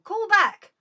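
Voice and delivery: loud, high command to ring back; calling out. Real, not acted. Caller missed on the live show, high shout.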